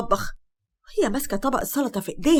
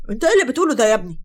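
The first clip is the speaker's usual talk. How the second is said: fast, louder indignant protest; 6 dB louder, much faster than usual. Acted. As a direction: cut him off in protest. Father objecting to Hossam leaving.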